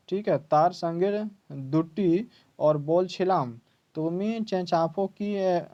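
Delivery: slow, lightly voiced Bengali scolding wife; Bengali speech. Wife snaps at husband in Bengali, lightly voiced Bengali scolding. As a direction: read the wife's lines in Bengali, unhurried. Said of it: "Bengali में बोलते हैं".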